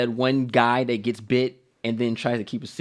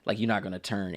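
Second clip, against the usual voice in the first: much softer and lower, hiding a secret; hushed secretive mutter; 8 semitones lower, 13 dB quieter than usual. Retold or imitated. Bitten man hiding his bite, muttering to himself. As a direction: keep it under your breath. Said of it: "He's like".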